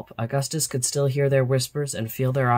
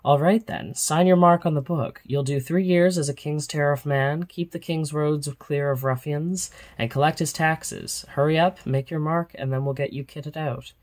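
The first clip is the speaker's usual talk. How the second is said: gruff captain; 3 semitones higher than usual. Acted. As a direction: hurry the boy along, impatient and gruff. Captain orders the new recruit.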